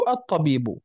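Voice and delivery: الطبيب as "at-tabiibu", no L heard; assimilated lam. Shown as a demonstration. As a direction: double the ta in الطبيب. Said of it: "أدغمت في تلك الطاء".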